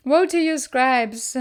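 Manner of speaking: thundering woe at the scribes; fierce woe. Retold or imitated. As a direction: hurl the curse at them. Denouncing scribes with feeling.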